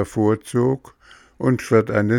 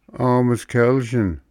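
slow, gentle pity, a little higher; 5 semitones higher, slower than usual. Acted. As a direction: glowworm pities the trapped puppet, slow and gentle. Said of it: "schaute sich den Hampelmann mitleidig an".

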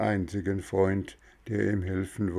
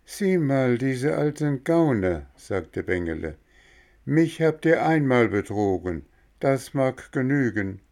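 put-on indignant boy; 5 semitones higher than usual. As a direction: brush off the old crooks. Boy scolds the two swindlers.

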